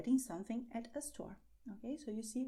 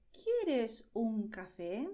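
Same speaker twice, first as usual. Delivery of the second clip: slow, clear teacher model; slow model phrase; 4 dB louder, slower than usual. Shown as a demonstration. Teacher modelling a coffee offer, slow and clear. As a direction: spell it out slowly for learners. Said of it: "for example, you can say".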